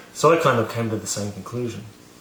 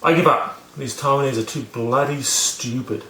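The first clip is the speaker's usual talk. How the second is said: fed-up outburst; 3 semitones higher than usual. Retold or imitated. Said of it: "she came steaming into".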